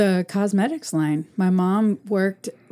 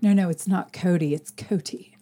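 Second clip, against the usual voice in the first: mock-pretentious name correction; put-on fussy correction; 3 semitones lower than usual. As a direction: primly correct them, softening on the name. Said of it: "does that not sound pretentious".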